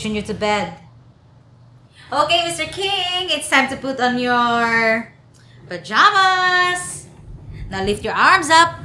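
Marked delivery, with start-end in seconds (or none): 2.1-8.8 mild coaxing singsong. Acted. Coaxing old employer to bedtime.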